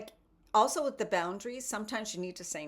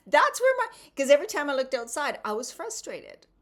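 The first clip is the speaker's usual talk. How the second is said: laughing at herself; 8 semitones higher, 10 dB louder than usual. Real, not acted. Confessing her spring grumpiness, laughing high and loud. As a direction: burst out high and loud, fast.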